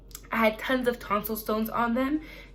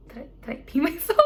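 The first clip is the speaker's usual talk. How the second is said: laughing in disbelief; 4 semitones higher, faster than usual. Retold or imitated. Retelling embarrassing moment after surgery.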